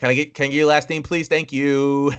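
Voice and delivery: mock polite, quick and slightly high; hurried politeness. Worker cutting short an awkward call, hurriedly polite.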